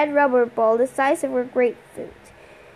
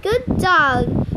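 higher-pitched dog praise; pleased, raised-pitch praise; praising a dog; 4 semitones higher, 3 dB louder than usual. A narrator's reading. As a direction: reward a dog with your voice.

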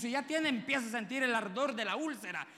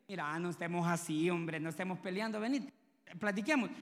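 low, softened peacemaking voice; acted low-key appeal to talk; conciliatory plea; 6 semitones lower, 3 dB quieter than usual. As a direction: gently coax a partner to make up. Imagined peace offer to an estranged partner.

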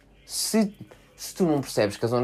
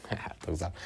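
a rir-se; 5 semitones lower, 13 dB quieter than usual. Real, not acted. Brinca depois da piada.

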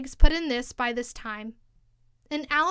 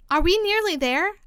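higher, lightly acted panted question; panting question; 6 semitones higher, 4 dB louder than usual. A narrator's reading. Alice asking the Queen mid-run, mildly panting. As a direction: plead it as a question, only a touch winded. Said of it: "managed to pant out at last".

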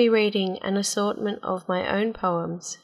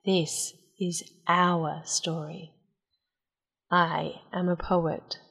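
grave poem reading. Acted. Poet telling listeners this is our story, grave recital.

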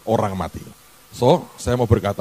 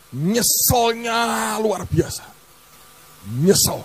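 slow, aching remorse; drawn-out regret; 10 semitones higher, much slower than usual. Retold or imitated. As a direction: sigh out the regret at a crawl. Recalling deep regret.

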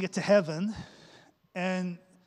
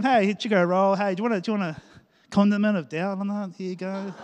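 mock cafe server offer; 3 dB louder than usual. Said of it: "Cafe team".

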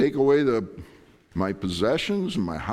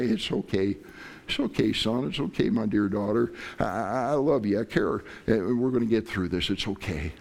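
soothing parent. Retold or imitated. Parent comforting a crying child.

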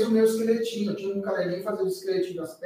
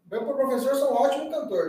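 mock boast; 4 semitones higher than usual. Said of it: "né?".

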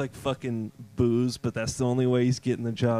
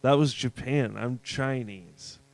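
mild protest; 2 semitones lower, slower than usual. Retold or imitated. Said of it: "the Chinese guy's like".

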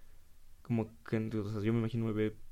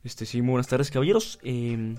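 higher, overly polite server voice; smooth-talk the customers to cover the mess; fake-polite cinema staff; 4 semitones higher than usual. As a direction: staff member sweet-talking customers after the extinguisher blew. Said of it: "Aparte que les dices".

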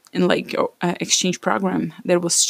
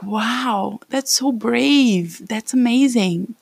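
admiring wow; 4 semitones higher, much slower than usual. Retold or imitated. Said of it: "I was like".

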